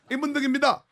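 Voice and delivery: 임은동입니다 lisped, high and loud; lisping voice. Retold or imitated. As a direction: say it with a slushy lisp. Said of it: "혀 짧은 소리로".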